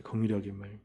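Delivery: 긍휼히 as a quiet low echo; soft echo. Shown as a demonstration. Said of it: "긍휼히 여김을 받아야 돼요".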